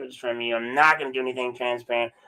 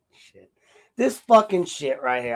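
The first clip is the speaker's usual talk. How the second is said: ordinary delivery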